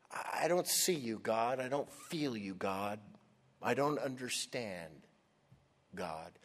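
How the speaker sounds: hushed, halting plea to God; softly bewildered prayer, trailing away on "God"; quiet despair. Acted. Preacher voices Asaph praying to a distant God, quietly despairing.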